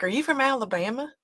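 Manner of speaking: retold curious question; imitating curious locals. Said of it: "people will be like".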